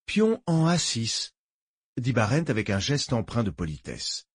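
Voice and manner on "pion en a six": slow, drawn-out call of the move; announcing a chess move. Acted. Chess player to his opponent, announcing a move. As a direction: call the move deliberately, each part spaced.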